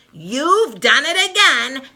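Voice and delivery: angry accusation at Linus; fuming. Acted. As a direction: scold him for letting her down. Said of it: "Sally fumes".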